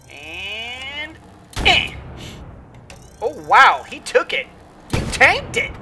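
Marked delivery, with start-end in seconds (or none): 3.2-5.7 surprised. Real, not acted. Surprised at enemy surviving.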